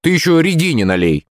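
high, teasing exclamation; amused, high-pitched jibe; laughing protest. A narrator's reading. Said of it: "засмеялся я".

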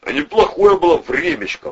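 loud, high, heartfelt reminiscence; heartfelt nostalgia; sincere, sighing. A narrator's reading. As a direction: look back fondly and sincerely, voice lifted. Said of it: "вздохнул Валера искренне".

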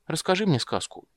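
put-on high childish plea; a girl wheedling for a story; little girl begging. Ciri to Geralt, high begging. Ciri's voice.

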